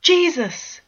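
burnt-hand exclamation, sharp and loud; startled cry. Acted. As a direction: jolt out the word as hot coffee spills. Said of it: "Bord cried".

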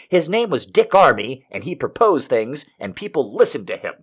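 worked-up, indignant disbelief; incredulous outrage. Acted. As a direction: sputter in disbelief at the news. Acted outrage at a headline.

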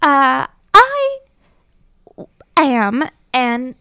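put-on Dondalorian belle, pitch swooping high; Dondalorian accent. Disguised belle protests the confiscation, Dondalorian accent. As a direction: stall grandly in an affected Dondalorian accent. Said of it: "I affect my best Dondalorian accent".

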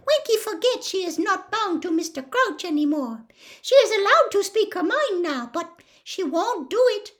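high, squeaky elf confiding; confidential squeak. Acted. Dobby confides in Harry about Winky, squeaking. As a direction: squeak it as an aside to a friend.

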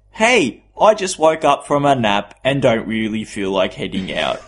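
mock sheepish text from a friend; reading mate's text. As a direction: read out a mate's lame excuse, lightly voiced. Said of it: "I should probably read it out".

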